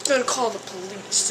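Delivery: imagined angry neighbor. Retold or imitated. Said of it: "what if he was like".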